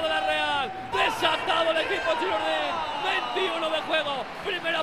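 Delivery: shouted goal call, full excitement; breakneck goal commentary. Acted. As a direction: call the golazo with fire. Goal commentary after the score.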